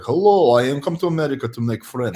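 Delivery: put-on heavy Russian accent, broken English; thick Russian accent, childlike. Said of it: "I also had, like, a heavy Russian accent".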